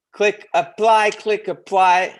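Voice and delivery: eager call to action. Real, not acted. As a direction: push it like an excited sign-off plea. Urging viewers to apply.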